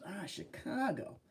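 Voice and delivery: put-on slow, soft Chicago accent; shaky stab at a Chicago accent; attempted Chicago accent. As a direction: draw the city name out in a put-on Chicago accent. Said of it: "the Chicago accent anymore".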